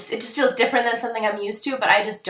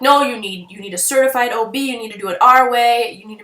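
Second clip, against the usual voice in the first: bossy doctor; 5 dB louder than usual. Retold or imitated. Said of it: "the doctors are like".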